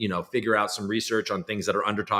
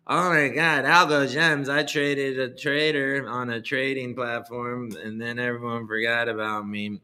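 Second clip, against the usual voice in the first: high put-on coin dev voice. Streamer parodying a crypto dev's new year message, high and slow. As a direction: ham up the goofy developer persona, stretched out. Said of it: "spouting off in that voice".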